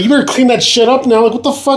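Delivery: very high-pitched indignant demand; retold pissed-off order. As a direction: replay an outraged telling-off, voice way up. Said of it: "I was pissed".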